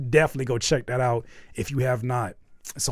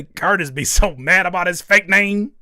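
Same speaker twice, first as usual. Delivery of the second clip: mock laughing read, louder; imitating crying laughing; 4 semitones higher, 8 dB louder than usual. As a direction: read it through a put-on laugh. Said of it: "You're crying laughing as you say".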